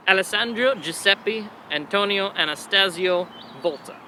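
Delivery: Alessandro Giuseppe Antonio Anastasio Volta spelled out slowly, syllable by syllable; teacher repeating the long name slowly; slow careful repeat. Shown as a demonstration. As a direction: say the full name slowly so the class can follow.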